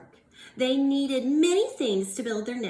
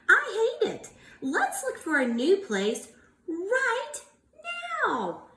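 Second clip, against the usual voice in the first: higher, louder huff; frustrated; 9 semitones higher, 3 dB louder than usual. Acted. Teacher voicing Missus Bird, a frustrated huff. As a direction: burst out fed up. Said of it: "frustrated and angry".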